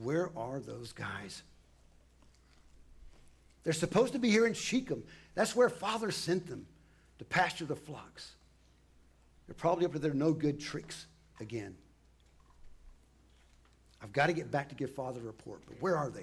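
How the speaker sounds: frustrated, exasperated, fed-up grumble. Narrator voicing a son searching the fields for his brothers, frustrated. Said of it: "you can hear the frustration in his voice".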